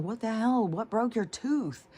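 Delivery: a mother's stunned alarm, retold; shocked mom.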